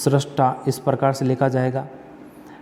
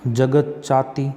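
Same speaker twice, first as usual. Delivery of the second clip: slow word reading; slower than usual. Shown as a demonstration. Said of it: "संधि विच्छेद करें".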